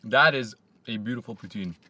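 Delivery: talking with food in mouth; chewing. Real, not acted. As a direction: mouth partly full. Seen 0: Chews poutine before and during words, lips moving, eyes closed.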